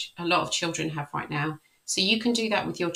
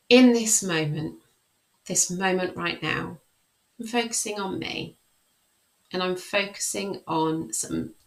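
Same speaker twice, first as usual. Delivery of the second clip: positive affirmation demo. Shown as a demonstration. Coach showing children a self-confidence affirmation, gentle. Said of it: "So the way we do that is".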